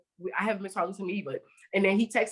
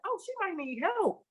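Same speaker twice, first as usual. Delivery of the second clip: retold scared worry; 9 semitones higher, 4 dB quieter than usual. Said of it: "So I'm scared".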